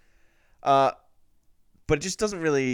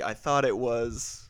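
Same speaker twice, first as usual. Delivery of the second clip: slow quoted repeat; slower than usual. Retold or imitated. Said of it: "we were in unison for a bit there".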